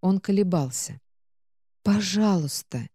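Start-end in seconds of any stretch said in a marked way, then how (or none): 1.8-2.9 trembling voice. Acted. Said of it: "дрожащим голосом попросила".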